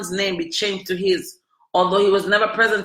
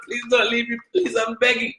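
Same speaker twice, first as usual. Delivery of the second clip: higher, whiny begging; imitating her old begging self, whiny; mock pleading; 5 semitones higher than usual. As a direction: plead like a desperate girlfriend. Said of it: "I was telling him".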